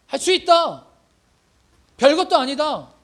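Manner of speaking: high, fervent declaration; proclaiming faith. Retold or imitated. 다윗이 형들 앞에서 믿음을 선포하며, 높고 힘차게. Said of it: "자신의 믿음을 막 선포하는 거예요".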